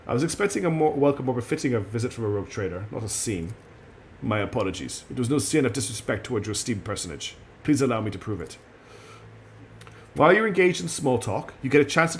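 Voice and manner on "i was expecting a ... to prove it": understated put-on Russian accent; courteous apology in a silly Russian accent; calm Russian accent. Liege apologizes to esteemed visitor, calm Russian accent. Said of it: "his speech calm and quiet".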